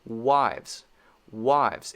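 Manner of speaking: "Wives" with a fast lip W and teeth-on-lip V; quick W and V. Shown as a demonstration. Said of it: "It's very fast".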